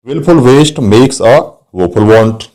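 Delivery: slow, with the w of "Willful", "waste", "woeful" and "want" brought out; teacher showing the repeated w sound to the class, slowly; slow example read. Shown as a demonstration. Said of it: "वो का use आ रहा है इसमें बार बार".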